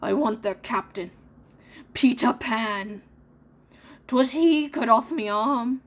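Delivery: passionate. Acted. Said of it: "Hook was saying passionately".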